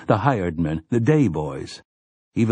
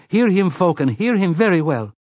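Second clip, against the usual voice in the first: fierce cry; 9 semitones higher than usual. A narrator's reading. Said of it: "rang out with clear ferocity".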